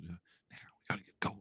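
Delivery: hushed, hurried, near-silent whisper. Voicing Doc urging the group toward the communications ray, said quietly. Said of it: "he says it quietly".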